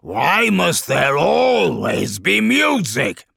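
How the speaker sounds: high, loud, slow complaint; drawn-out monster shout of exasperation; exasperated demon wail. Acted. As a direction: wail it out, utterly fed up. Demon lord complains about music.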